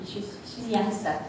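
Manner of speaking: put-on slow playful Boston accent. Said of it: "as I say in my Boston accent".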